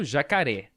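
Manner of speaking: "jacaré" with the final "ré" stressed; stress on last syllable. Shown as a demonstration. Teacher showing an oxytone word to pupils, stressing "ré" in "jacaré". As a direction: lean on the closing "ré" of "jacaré". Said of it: "a sílaba mais forte da palavra".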